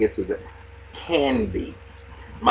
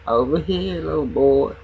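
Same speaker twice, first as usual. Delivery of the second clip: flirty call; 5 semitones higher, slower than usual. Pretend. Flirty calling out to Safari.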